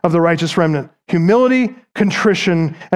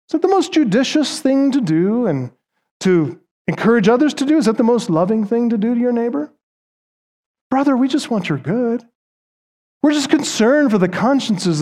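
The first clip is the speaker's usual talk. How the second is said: higher, sweetly condescending fake concern; mock concerned critic; 4 semitones higher than usual. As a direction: mimic the pious critic who sounds caring but scolds. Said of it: "in the most subtle but revealing way".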